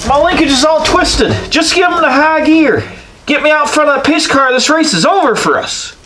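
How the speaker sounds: high silly race driver voice. Pretend. Voicing a race car driver.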